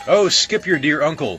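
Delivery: mild mock anger; angry exclamation. A narrator's reading. Bellman cutting off baker, mildly angry. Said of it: "as he angrily tingled his bell".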